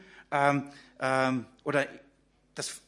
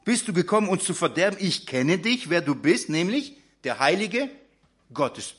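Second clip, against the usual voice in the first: possessed man crying out; 3 semitones higher, 4 dB louder than usual. Acted. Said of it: "Und er schrie auf und sagte".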